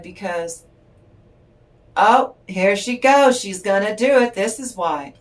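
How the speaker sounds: "here she goes" stretched out in a resigned way; exasperated nurse. Retold or imitated. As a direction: imitate a nurse sighing at a stubborn baby. Nurse quoted watching baby.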